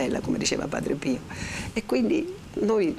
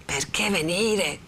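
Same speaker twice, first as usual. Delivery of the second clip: subdued echo; slower than usual. Acted. Renzo echoes Lucia's question, slow and subdued. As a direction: repeat it slowly without raising the voice.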